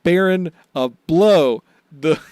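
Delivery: mock grand announcer titles; silly clown herald. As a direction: proclaim the clown's titles pompously. Mock grand Buggy Watch announcement.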